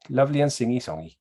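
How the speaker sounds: attempted sing-song Welsh accent. Shown as a demonstration. Praising the Welsh, badly faked singy-songy Welsh accent. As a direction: put on a wobbly Welsh lilt that drifts towards Pakistani. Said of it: "Love that accent".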